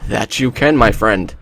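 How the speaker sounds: lightly put-on Russian accent; horrible Russian accent. Player answering a game character, bad Russian accent. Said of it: "that's a horrible Russian accent".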